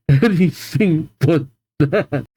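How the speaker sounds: slow, drawn-out mock begging; dramatic plea. Shown as a demonstration. Reader mock-begging not to hear yell again, slow. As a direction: plead it slowly like a melodrama.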